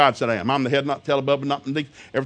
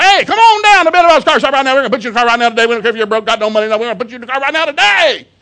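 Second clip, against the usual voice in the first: very high, booming, shrill, rushed hard-sell shouting; 10 semitones higher, 11 dB louder than usual. Speaker warning about sales pitches, mimicking a car commercial: imitating a yelling commercial. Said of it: "every commercial they're yelling at you".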